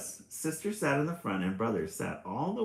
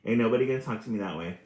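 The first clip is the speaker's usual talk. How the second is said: fast sassy; 5 dB louder, much faster than usual. Retold or imitated. Sassy sister voiced by reader.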